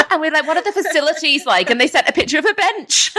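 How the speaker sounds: high, laughing through the words. Real, not acted. Friend retelling the caravan park offer, high and laughing. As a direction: tell it while cracking up.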